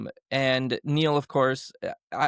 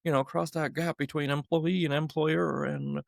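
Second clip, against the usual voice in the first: light American accent, retold. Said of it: "sorry, I sound American".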